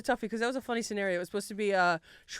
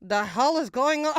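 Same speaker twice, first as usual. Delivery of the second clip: put-on botched Scottish accent, drawn out; slow, failed Scottish ogre drifting toward Russian; Shrek; 2 semitones higher than usual. Ogre waking up confused, botched Scottish accent. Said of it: "so that was Shrek".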